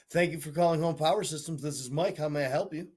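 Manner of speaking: polite customer service phone voice. Shown as a demonstration. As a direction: answer like a professional receptionist. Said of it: "my phone voice is such an uppity white person, two octaves higher".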